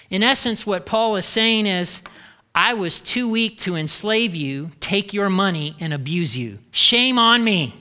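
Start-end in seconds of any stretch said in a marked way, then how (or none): 2.5-7.8 sarcastic. Acted. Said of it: "hear the sarcasm".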